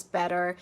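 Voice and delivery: BETTER with T turned to D; American flapped T. Shown as a demonstration. Teacher showing American English, D-like T in BETTER. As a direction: say BETTER like "bedder". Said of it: "to a D sound".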